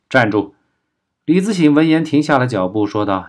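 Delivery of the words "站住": short, mildly raised command; called-out command. A narrator's reading. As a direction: call a halt with contained force. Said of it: "叫道".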